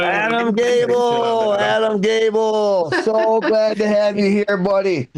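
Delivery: slow, drawn-out name call; host's shout-out. Real, not acted. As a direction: stretch the name out for applause. Host hails the departing comic.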